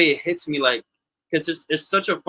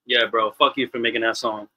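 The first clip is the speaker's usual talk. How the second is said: laughing; 4 semitones lower than usual. Real, not acted. Laughing mock insult to friend.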